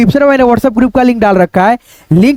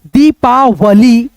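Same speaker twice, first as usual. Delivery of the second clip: sounding out; much slower than usual. Shown as a demonstration. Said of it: "दरबारी".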